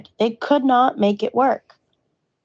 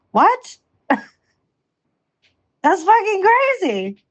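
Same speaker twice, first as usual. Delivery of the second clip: can't believe it, laughing; disbelieving laugh; 11 semitones higher, much slower than usual. Real, not acted. Venting to her ex about his bailing, incredulous laughing. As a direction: laugh through the words, pitched way up and very slow.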